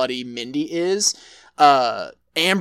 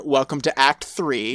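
slow ominous line; 2 semitones lower than usual. Retold or imitated. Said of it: "love that delivery".

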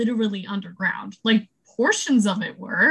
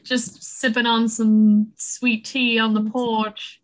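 unhurried, stretched-out words; slow Southern talk; slower than usual. Pretend. Teasing about Southern people on the porch, slow talk. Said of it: "talking all slowly".

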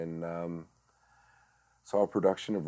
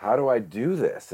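retold bewilderment; 7 semitones higher, 7 dB louder than usual. Retold young self at a loss.

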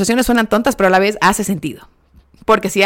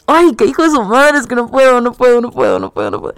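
exasperated outburst; 3 semitones higher, 4 dB louder than usual. Real, not acted. Exasperated at Jeremy's excuses.

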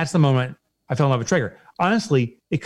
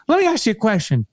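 much higher, gushing Southern customer-service voice; excited Southern rep; 9 semitones higher than usual. Retold or imitated. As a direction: play the overjoyed phone guy from the South. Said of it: "because of the guy's accent".

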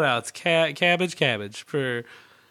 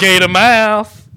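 slow, loud, high mock kid cry; high, loud, slow hammed-up kid; Steve Irwin kid; 5 semitones higher, 13 dB louder, slower than usual. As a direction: drag it out, showing off. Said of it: "he goes".

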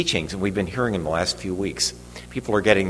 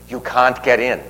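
higher-pitched mimicry of a Boston accent; thick Boston accent; 4 semitones higher than usual. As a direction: refuse entry like a Boston gentleman, imitated. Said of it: "with a real thick Boston accent".

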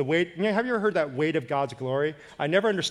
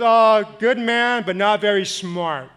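mild driver's voice; 5 semitones higher, 7 dB louder, slower than usual. Retold or imitated. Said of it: "He goes".

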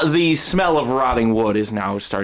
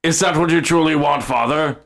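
quick, lightly raised creature voice; earnest spirit son; 4 semitones higher, faster than usual. Acted. Spirit son checks father's wish, in a quick, earnest creature voice. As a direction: ask father in earnest as a devoted little spirit. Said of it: "he goes".

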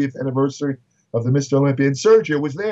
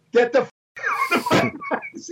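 higher, called out across the gym as a running joke; retold joking yell; faster than usual. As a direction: holler it to the other end of the room, half joking. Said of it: "He'd yell it across the gym".

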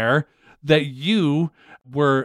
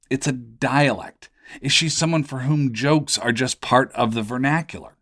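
podcast host intro; 2 semitones lower than usual. Acted. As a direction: read it like a show opener. Host reads show intro over music.

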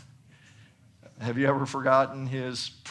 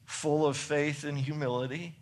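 dry, understated sarcasm; sarcastic; 3 dB quieter than usual. Real, not acted. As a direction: toss it off with quiet irony. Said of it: "I say that sarcastically".

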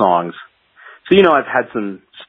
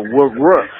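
imitated reel whir; 5 semitones higher, 3 dB louder than usual. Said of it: "I just hear it go".

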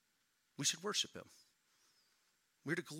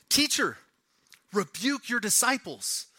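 indignant demand; 5 semitones higher, 3 dB louder than usual. Retold or imitated. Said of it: "they said to Jesus".

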